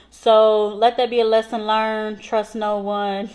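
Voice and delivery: slow, weighty warning; mock-solemn moral. Real, not acted. Vlogger warning viewers, mock-solemn. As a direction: deliver it like a grave lesson. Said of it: "mock-serious moral".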